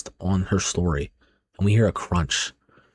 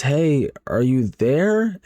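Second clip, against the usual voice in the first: slow, higher call into a dark house; 5 semitones higher, much slower than usual. Acted. Friend calls into the dark doorway, calling out. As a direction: draw it out, searching for someone.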